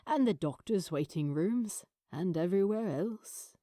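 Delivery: lightly voiced older man, reassuring; gentle father. The father to his son Adam, gently reassuring. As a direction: soothe your son's worry.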